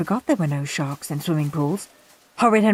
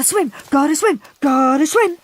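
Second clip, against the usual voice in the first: breathless mutter; 8 semitones higher, 4 dB louder than usual. A narrator's reading. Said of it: "muttered Al between strokes".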